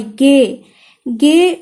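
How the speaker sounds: गे said loud with firm stress. Shown as a demonstration. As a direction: push गे out with weight, twice. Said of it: "हमें stress feel हुआ".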